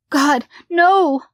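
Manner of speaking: high, loud desperate plea; pleading. A narrator's reading. Mother dragged into closet, pleading desperately. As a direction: beg as you're dragged. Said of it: "Sharon pleaded".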